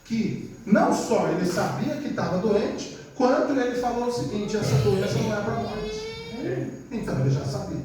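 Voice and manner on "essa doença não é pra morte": higher, slow solemn pronouncement; voicing Jesus. Preacher quoting Jesus to the church: slow, solemn. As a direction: declare it like a prophecy.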